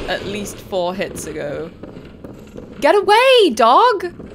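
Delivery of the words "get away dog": high loud scream; screaming at a werewolf; panicked shout. Real, not acted. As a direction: yell it off you. Werewolf attacks.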